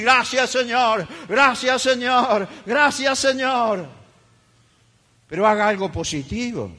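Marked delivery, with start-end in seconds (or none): 0.0-3.9 praising. Shown as a demonstration. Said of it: "glorificar a Dios y decir".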